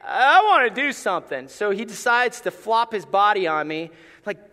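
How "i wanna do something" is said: a lightly voiced dog asking daddy; voicing the dog. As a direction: speak for the dog, childlike plea. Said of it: "That's like".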